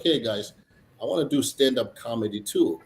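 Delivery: usual speaking voice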